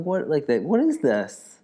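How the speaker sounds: lightly voiced woman feigning casual interest; a hint of a woman shopper; woman window-shopping. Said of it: "my impression of, uh, a woman".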